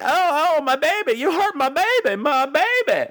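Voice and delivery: high, drawn-out hammy lament; put-on high-pitched distress; mock wailing mother. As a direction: wail it like a melodramatic film mother. Mimicking wailing mother in film.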